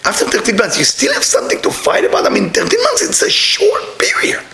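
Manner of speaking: incredulous question. Retold or imitated. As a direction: tease the couple with mock amazement. Asking a couple a funny question.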